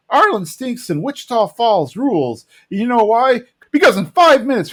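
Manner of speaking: high-pitched, hammed-up irate rant; ranting manager. Jeff tired of South Texas pig jockeys, mock rant. Jeff's ranting tirade acted out.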